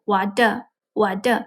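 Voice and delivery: "我的" with a hard, unaspirated D. Shown as a demonstration. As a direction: show the D sound in "我的". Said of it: "they pronounce it as D".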